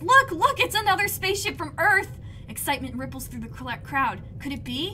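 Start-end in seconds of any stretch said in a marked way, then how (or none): 0.0-2.2 high, loud joyful cry; excited exclaiming. Acted. Mars pointing at the sky, excited exclaiming. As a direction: point up and shout with glee. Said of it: "she exclaims".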